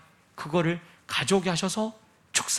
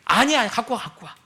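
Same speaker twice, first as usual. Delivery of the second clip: gentle Jesus reply. Acted. Jesus voiced, fading to hush.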